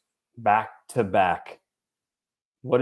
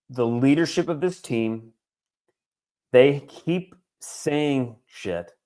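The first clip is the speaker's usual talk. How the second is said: spaced out with long pauses, feeling building; real rising emotion, phrase by heavy phrase; getting emotional. Real, not acted. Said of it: "Sound like you're getting emotional".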